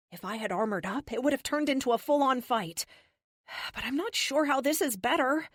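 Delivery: sighing. Acted. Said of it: "I say with a sigh".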